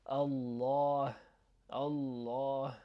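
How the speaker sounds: Allah, last vowel held and far back; heavy Allah. Shown as a demonstration. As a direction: say "Allah" with a dark, full l. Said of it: "the way you wanna pronounce".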